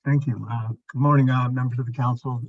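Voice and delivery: muffled audio, like through a wall. Real, not acted. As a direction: voice muffled on a bad line. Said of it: "it does actually sound like you're quite muffled".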